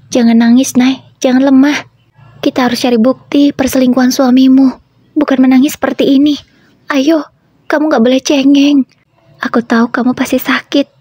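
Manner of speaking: a lightly voiced pushy best friend pointing something out; Nanda's voice. Nanda scolds crying friend. (suara sahabat yang mendesak, lebih tinggi)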